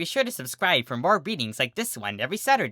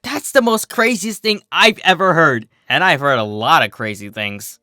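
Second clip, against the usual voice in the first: high, incredulous and giddy; can't believe it, half laughing; amused disbelief; 5 semitones higher, 5 dB louder than usual. Acted. Lyra reacting to the sea pony legend, giddy disbelief.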